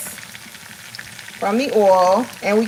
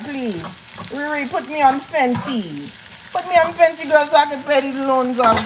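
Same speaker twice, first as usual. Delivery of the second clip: playful attempt at a Bajan accent; put-on Barbadian accent; 3 semitones higher than usual. Asking Riri to put her on Fenty, mock Barbadian accent. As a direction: plead in a mock island accent. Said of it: "You just start coming up with accents".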